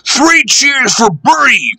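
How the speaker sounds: high slow called cheer; calling out cheers. Acted. Passengers calling three cheers for Bertie. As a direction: call out to the hero bus. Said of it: "called the passengers".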